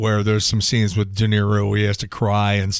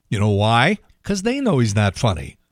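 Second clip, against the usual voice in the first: normal talking voice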